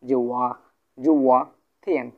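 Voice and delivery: জুয়া থিয়ান modelled syllable by syllable; teacher's firm model of জুয়া থিয়ান; pronunciation demo. Shown as a demonstration. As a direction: set out জুয়া, then থিয়ান, clearly for learners. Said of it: "কেমন করে উচ্চারণ করবো".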